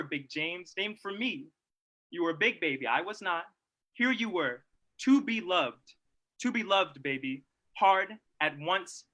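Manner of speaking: heartfelt reading. Acted. Speaker reads Baldwin's letter to his nephew aloud, heartfelt. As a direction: read it like a loving uncle.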